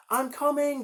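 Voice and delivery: high, loud heroic call; heroic reply. Acted. Little brother hero calling back, heroic. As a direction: answer like the brave rescuer. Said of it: "Darby replied".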